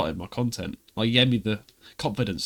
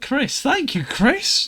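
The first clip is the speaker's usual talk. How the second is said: much higher, squealed thank you; gushing thanks; 12 semitones higher, much slower than usual. Retold or imitated. Thanking Chris for liking the short, high squeal. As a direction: gush like a starstruck fan. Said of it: "I was like".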